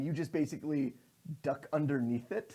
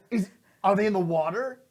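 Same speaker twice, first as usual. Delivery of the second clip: urgent question; 7 semitones higher, 10 dB louder than usual. Acted. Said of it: "it's like".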